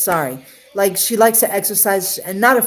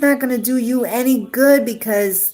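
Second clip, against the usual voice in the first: voicing the ex's warning; 5 semitones higher, 3 dB louder than usual. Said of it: "She says".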